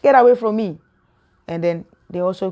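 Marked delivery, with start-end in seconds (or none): 0.0-0.8 mock-stern God casting someone out; God rebuking. God to Adam and Eve after their sin, stern rebuke. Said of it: "And God said".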